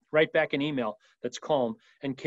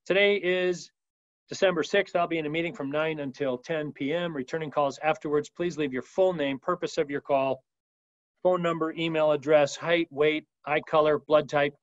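lightly acted matter-of-fact data list; mildly exaggerated, methodical voicemail greeting; Cool Blue voicemail. Shown as a demonstration. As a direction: itemize every detail like a mock form. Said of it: "we know what Cool Blue sounds like".

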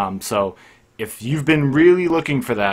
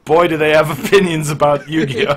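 louder, laughing mid-sentence; 5 semitones higher, 6 dB louder than usual. Real, not acted. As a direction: tease them through a laugh.

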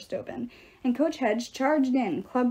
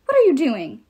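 high ow then a loud demand; yelp, then demand an answer; king in pain demanding an answer; 4 semitones higher, 7 dB louder than usual. A narrator's reading. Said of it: "he demanded".

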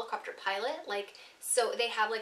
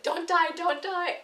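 slow, higher, laughing chant; half-laughing, higher plea to yourself; 7 semitones higher, 4 dB louder, slower than usual. Retold or imitated. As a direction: giggle through a mock prayer. Surfacing after deep plunge.

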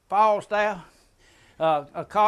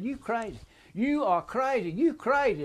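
raised, higher retelling of a yell; mock yell; 6 semitones higher than usual. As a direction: call him crazy from the roadside, pitched up. Bystanders yelling at the driver.

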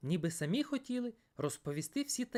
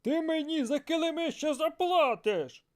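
mild angry threat, louder; angry merchant; 8 semitones higher, 5 dB louder than usual. Acted. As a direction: growl a warning about the rugs. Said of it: "розлючено мовив Рафут".

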